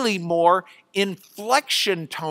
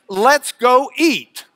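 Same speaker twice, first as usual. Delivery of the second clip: slow gloss; 4 semitones higher, 4 dB louder, slower than usual. Shown as a demonstration. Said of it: "It means".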